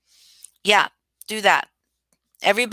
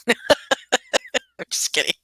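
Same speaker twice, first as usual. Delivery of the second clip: laughing; much slower than usual. Real, not acted. Joking after crude remark.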